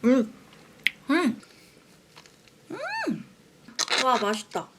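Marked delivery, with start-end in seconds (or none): 0.0-3.2 wincing brain freeze; cold drink head pain. Real, not acted. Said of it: "머리띠게".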